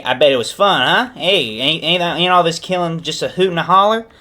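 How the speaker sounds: little buddy voice. Acted. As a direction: pester the boss like an eager henchman. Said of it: "one of his little buddies, uh, is like".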